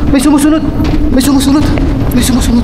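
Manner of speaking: high frantic panic, out of breath; panicked while running. Real, not acted. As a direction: yell it in fear while running. Fleeing in tunnel, calling out.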